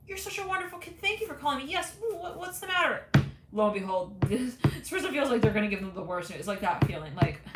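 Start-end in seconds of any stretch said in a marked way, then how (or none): 0.1-3.0 high chirpy voice for a sweet caller; Mister Bean voice. Acted. Mister Bean answers the nervous intern, high and sweet. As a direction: coo sweetly, then worry.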